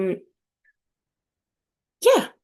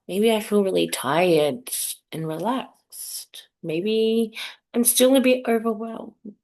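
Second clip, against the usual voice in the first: measured body-scan guidance with long pauses; guided meditation. Acted. Host guides listeners to check their bodies, meditation voice. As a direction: leave space for the listener after each prompt.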